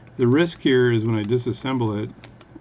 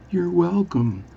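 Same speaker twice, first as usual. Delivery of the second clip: higher, drawn-out comic delivery; really slow speech; 7 semitones higher, slower than usual. Acted. Bartender replying to the Newfie, really slowly. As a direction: lengthen each word carefully. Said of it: "is speak really slowly".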